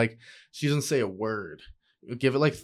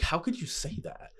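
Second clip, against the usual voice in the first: mildly indignant, pitch lifted a little, softer; retold hurt protest; 4 semitones higher, 5 dB quieter than usual. Acting out a reply in the lovers' quarrel, restrained indignation. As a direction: act out a restrained wounded objection.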